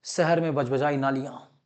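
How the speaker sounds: low, soft mock headline read; half-hearted newsreader imitation; amateur news anchor. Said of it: "मैं एक अच्छा news anchor नहीं हूं".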